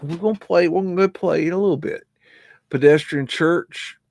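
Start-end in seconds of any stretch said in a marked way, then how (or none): 0.0-2.0 high, fast promise to the dog. Real, not acted. Talking to the dog, high, fast and cheery. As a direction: cheer the pup up, quick and bright.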